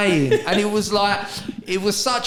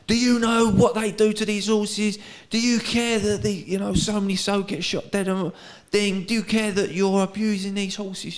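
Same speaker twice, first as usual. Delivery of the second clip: lightly voiced, higher-pitched protester; banner-waving protester; 4 semitones higher than usual. Protester challenging racegoers about horses, mildly voiced higher plea. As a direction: plead with passers-by like a protester. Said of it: "with the banner, he was like".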